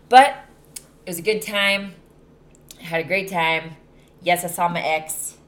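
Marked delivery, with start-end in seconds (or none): 4.2-5.4 slipping into a country accent. Real, not acted. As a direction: say it with a country twang. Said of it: "I'm talking in a country accent".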